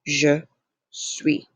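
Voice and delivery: "Je suis" word by word, S unpronounced; silent final S. Shown as a demonstration. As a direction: separate "Je" and "suis", ending on the vowel. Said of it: "do not pronounce that S".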